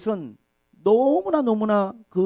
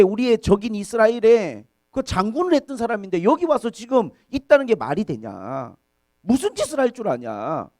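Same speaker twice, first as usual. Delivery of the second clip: acted-out indignant objection, mildly raised; objecting officials; 4 semitones higher, 3 dB louder than usual. Philistine officials objecting to David joining them, mild indignant protest. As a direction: argue it as an affronted official. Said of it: "모든 방백들이 전부 다 싫어하는 거예요".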